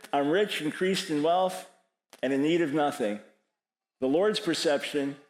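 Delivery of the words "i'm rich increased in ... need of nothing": proud, self-satisfied boasting; smug boast. Acted. Preacher voicing the church's self-image, smug and proud. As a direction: puff it up like a church sure of itself. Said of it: "My perception".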